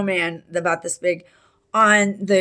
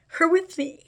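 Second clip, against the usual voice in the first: whisper; 10 semitones higher than usual. Real, not acted. Mother's presence at fourth step.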